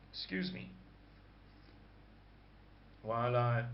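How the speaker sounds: croaky, throat-clearing voice. Real, not acted. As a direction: speak through a croaky throat. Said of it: "my croaky vocal cords".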